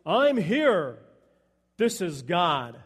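lightly voiced God, slow and falling; a hint of God's voice, firm and slowing. God answering the man on the cliff, lightly voiced. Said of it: "he hears a voice".

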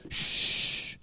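sharp unvoiced shush. A narrator's reading. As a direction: hush the boy at once. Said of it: "the man said".

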